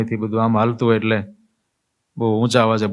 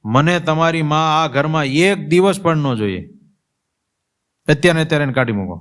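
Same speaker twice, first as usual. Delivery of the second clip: angry snapping wife; 5 semitones higher than usual. Retold or imitated. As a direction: play the wife lashing out at her husband. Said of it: "આમ રીતસર તાડુકી હોય ને એમ જ".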